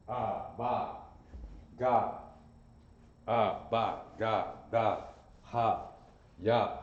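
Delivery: reciting the letters one by one; slow, spaced sound drill; alphabet recitation. Shown as a demonstration. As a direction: sound out each letter for the class. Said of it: "teacher reciting the alphabet".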